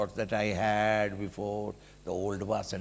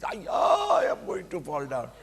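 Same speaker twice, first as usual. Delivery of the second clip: put-on frightened child; 5 semitones higher than usual.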